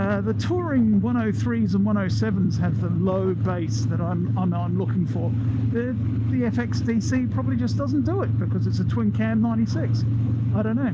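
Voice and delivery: talking inside a motorcycle helmet; muffled helmet mic over engine noise. Real, not acted. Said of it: "in-helmet sound check".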